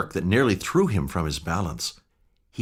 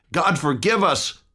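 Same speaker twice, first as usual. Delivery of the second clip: higher, slower anguished plea; horrified cry; 9 semitones higher than usual. Acted. Utterson begging heaven after the shocking discovery, horrified cry. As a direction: cry it out in horror.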